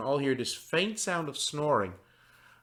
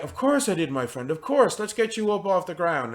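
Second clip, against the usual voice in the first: higher-pitched, hearty reassurance; reassuring friend; 5 semitones higher than usual. Acted. Dubois helping his found friend up, reassuring. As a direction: reassure a friend as you help them up. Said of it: "And he's like".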